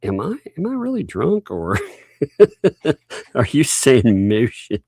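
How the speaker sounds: giggling through the question; laughing quote. Retold or imitated. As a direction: read it while cracking up. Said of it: "they were like".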